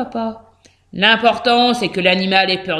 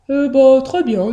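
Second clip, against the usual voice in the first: pleased, cheerful answer; smiling; 3 semitones higher, 4 dB louder than usual. A narrator's reading. Hamster reporting to his father, smiling. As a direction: answer with a smile in the voice. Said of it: "dit Billy souriant".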